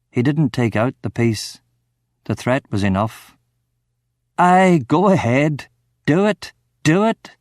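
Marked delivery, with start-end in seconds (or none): 4.4-7.4 yelling, laughing. Acted. Drunk man taunts armed Ramon with a laughing yell. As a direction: dare him to shoot. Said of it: "I yelled at him, laughing".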